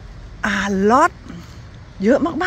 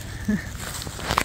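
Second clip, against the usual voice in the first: quiet, wordless chuckle; soft laugh; 9 dB quieter than usual. Real, not acted. Reacting to "if we're still alive", soft laugh. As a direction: laugh softly under your breath. Laughs at partner's dry joke.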